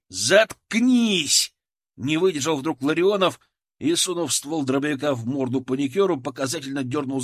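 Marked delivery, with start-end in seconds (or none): 0.1-1.5 loud, higher snap to silence him; angry shout. A narrator's reading. Soldier shouting the panicker down. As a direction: cut him off hard.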